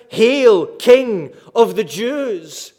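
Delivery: loud, drawn-out mock salute; measured cry, strongest on "Hail". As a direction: call out a slow, ringing homage. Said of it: "they cried out".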